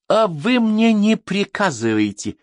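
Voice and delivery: high, loud, slow retort; angry. A narrator's reading. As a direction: snap back at being given orders. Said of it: "разозлился комиссар". (сердито, на повышенных тонах)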